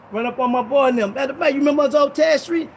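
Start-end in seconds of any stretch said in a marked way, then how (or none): 1.1-2.7 calling out. Retold or imitated. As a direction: hail the pastor from a distance. Old friends calling out.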